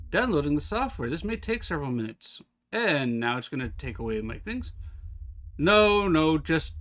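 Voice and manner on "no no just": alarmed no. Real, not acted. Printer update taking over.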